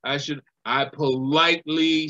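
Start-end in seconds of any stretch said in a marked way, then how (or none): 0.0-0.4 calm apology. Retold or imitated. Veteran apologizing to the young man, calm low gentle voice. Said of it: "in a calm voice".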